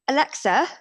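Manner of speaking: put-on kids calling Alexa. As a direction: shout the question at Alexa like an excited kid. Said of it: "They go".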